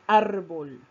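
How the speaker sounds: "árbol" with a strong, leaning first syllable ÁR; "árbol", force on ÁR, "bol" falling; stress on ÁR. Shown as a demonstration. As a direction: lean hard on ÁR in "árbol". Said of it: "tiene la sílaba tónica en la sílaba ar".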